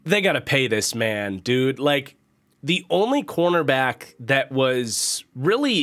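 stuffy, nasal cold voice. Real, not acted. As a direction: talk through a blocked nose from a cold. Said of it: "pardon my nasally voice".

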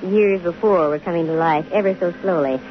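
lowering the voice as the mystery clears; story narration. A narrator's reading. Detective narrates, lower and softer in the darkened room.

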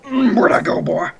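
high, loud mocking taunt. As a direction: tease the enemy from hiding. Taunting an enemy.

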